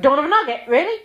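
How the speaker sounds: mock disbelief at the title; incredulous friends. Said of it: "everyone went".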